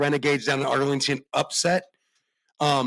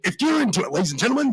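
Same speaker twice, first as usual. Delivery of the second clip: 1930s announcer; 11 semitones higher than usual. Acted. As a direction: bellow it like a vintage showman. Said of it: "nineteen thirties announcers".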